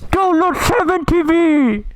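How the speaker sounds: high, slow, drawn-out mock yell; mock yelled demand. Pestering Jay to install the extension, hammed-up shout. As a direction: stretch it out like a playful command.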